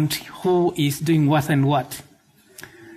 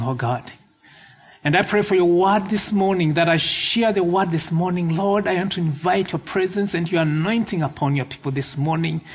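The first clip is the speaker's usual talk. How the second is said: earnest pleading prayer. Acted. Leads the congregation in prayer.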